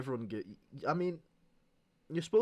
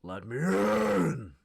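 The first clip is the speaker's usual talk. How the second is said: shouting; 7 semitones higher, 9 dB louder, much slower than usual. Acted. Game character shouting at door.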